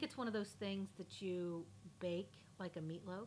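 unvoiced, hushed whisper. Real, not acted. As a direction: lean in and whisper it. Whispered gross detail.

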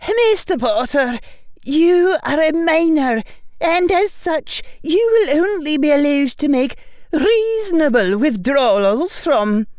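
high, loud, stern teacher's voice; stern witch professor. A narrator's reading. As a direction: speak like a strict old witch addressing a boy. McGonagall voiced by narrator.

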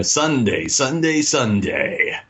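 booming fight-night announcer hype; wrestling promo voice. Retold or imitated. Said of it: "like a wrestling promo".

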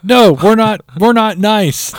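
high, loud snarling reply; snarling arch enemies. Retold or imitated. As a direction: snap back like a villain. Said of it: "They're like".

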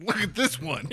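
put-on high, excited kid voice; a kid showing off a find; a child's excited look-at-this. Kids marveling at boulders.

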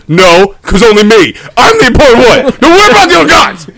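rising, high-pitched petulant insistence; mock arguing God. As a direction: build to a rushed, high mock protest. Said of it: "Like, literally an argument".

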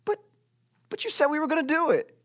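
put-on high-pitched disappointed child; little kid. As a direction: protest like a let-down little kid. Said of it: "with little kids, they say".

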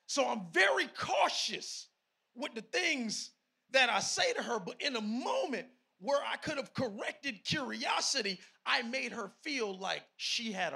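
loud, emphatic preacher; forceful sermon delivery; preaching. Real, not acted.

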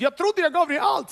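high, loud anguished cry; crying out to God. Retold or imitated. Man in a cellar crying out to God, loud. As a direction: throw the words up at God in despair. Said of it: "Jag skrek ut".

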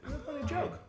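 squeaky high mock praise through a laugh; sarcastic. Co-host finishes mocking the pun, high laughing sarcasm.

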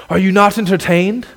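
a lightly voiced Maximus, rising question to the crowd; a hint of the arena hero's challenge; Gladiator impression. Pastor quoting the film to his congregation, lightly voiced gladiator. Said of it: "That was my Gladiator impression".

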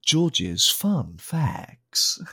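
slow drawn-out host outro; show host sign-off. Pretend. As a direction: wrap up the segment like a radio host.

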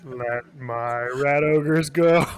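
slow, solemn decree; slow proclamation. Acted. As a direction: proclaim it slowly like a prophet. Skaven Moses joke.

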